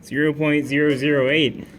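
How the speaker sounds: shouted answer, very loud; loud blurt. Acted. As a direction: blurt it out at full volume.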